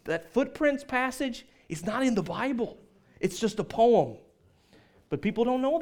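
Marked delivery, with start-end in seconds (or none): 0.0-4.2 gently letting someone down, higher voice; nicely. Acted. Preacher correcting someone planning a funeral, nicely. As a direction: break it to them nicely, pitched up. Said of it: "kinda nicely say to someone".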